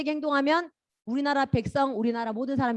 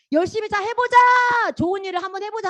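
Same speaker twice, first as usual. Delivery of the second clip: encouraging; 10 semitones higher, 6 dB louder than usual. Retold or imitated. People encouraging each other.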